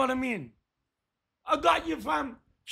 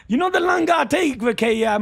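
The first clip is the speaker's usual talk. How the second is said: playful fast shout; 3 semitones higher, 5 dB louder than usual. Real, not acted. Teasing a viewer, speeding up.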